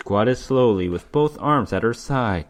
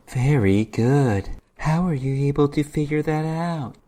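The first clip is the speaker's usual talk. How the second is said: demoness, mock approving; 3 semitones higher than usual. Demoness answers Gregory, amused.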